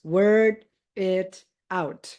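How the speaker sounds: word it out run together, slow and linked; linked as one word. Shown as a demonstration. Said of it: "you pronounce them as if they are only one".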